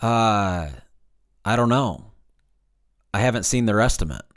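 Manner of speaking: puzzled, unsure shrug in the voice; a mildly confused salesman. Shown as a demonstration. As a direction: sound genuinely baffled by the question. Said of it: "in a confused voice".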